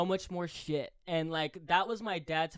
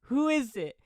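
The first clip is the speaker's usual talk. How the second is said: higher, louder, eager guessing; anxious excitement; 6 semitones higher, 7 dB louder than usual. Retold or imitated. Wrestling fan reliving the blackout, excited guessing. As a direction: relive the suspense when the lights went out. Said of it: "all I could think about was".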